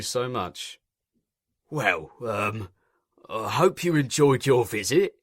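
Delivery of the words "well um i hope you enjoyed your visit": forced cheer, a touch louder; would-be cheerful. A narrator's reading. Controller seeing off the inspector, forced cheer. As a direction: put on a strained bright tone. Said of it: "in a would-be cheerful voice".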